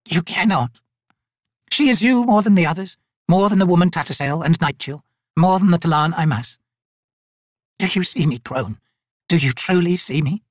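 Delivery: put-on high, quavering plea of a frail old woman; desperate old woman pleading. Old Maibi begging the spirits below for mercy, high desperate plea. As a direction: beg the spirits for mercy, rising to a cry.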